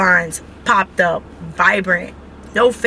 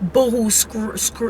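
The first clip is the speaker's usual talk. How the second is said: imitated boo-hoo sobbing; 3 dB quieter than usual. Wife showing viewers how hard she cried, mock sobbing. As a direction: fake a childish boo-hoo cry. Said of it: "This type of crying".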